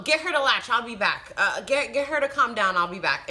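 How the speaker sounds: mock-curt nurse giving orders; lightly voiced irritated nurse; agitated nurse. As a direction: brush her off impatiently. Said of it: "agitated at the fact".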